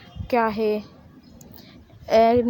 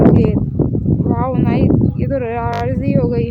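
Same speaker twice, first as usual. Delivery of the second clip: loud, thrilled mother; delighted cheer; 6 dB louder, slower than usual. Acted. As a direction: burst out with joy at her yes. Mother delighted daughter agreed. (बेटी की हाँ पर ख़ुशी से ज़ोर से उछलना)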